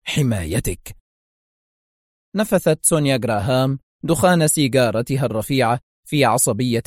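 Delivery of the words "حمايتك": firm. A narrator's reading. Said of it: "مستطردا في حزم".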